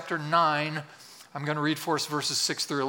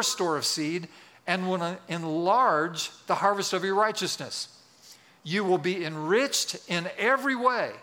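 deliberate, emphatic public Bible reading; scripture reading. Acted. Pastor reads Paul's letter to the congregation, emphatic scripture reading. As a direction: read the verse out with weighted key words.

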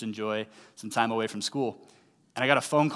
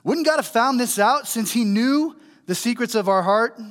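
sassy rhetorical question; 9 semitones higher, 5 dB louder than usual. A narrator's reading. Sarcastic question in scripture.

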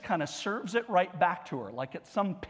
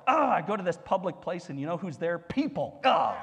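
mock exasperation. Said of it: "I get very frustrated when it's like".

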